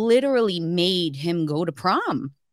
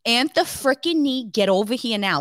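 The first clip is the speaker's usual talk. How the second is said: stern mom calling the son; calling from far away; faster than usual. Shown as a demonstration. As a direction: call him over, mad. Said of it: "Like that".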